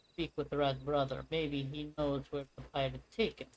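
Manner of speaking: lightly put-on Russian-like accent for game dialogue; faintly Russian-sounding character voice; almost Russian accent. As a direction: read the lines with a hint of a Russian accent. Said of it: "doing this almost Russian accent".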